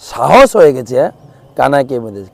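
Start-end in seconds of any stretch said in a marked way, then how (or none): none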